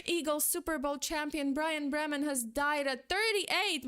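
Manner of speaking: sarcastic reading of the team's post; mock team post. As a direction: parody the team's casual tweet. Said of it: "Eagles posting on Twitter".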